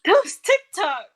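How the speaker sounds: put-on slow, loud, high old granny; grandma voice. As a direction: drag it out like a grandma. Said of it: "you sounded like your grandma when you said that".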